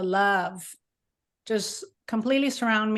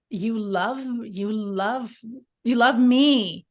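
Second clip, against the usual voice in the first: building awe; 4 dB louder, slower than usual. Retold or imitated. Overwhelmed realization of God's love.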